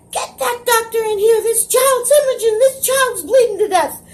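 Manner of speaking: high, sustained imitated scream for help; Daisy. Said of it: "starts screaming".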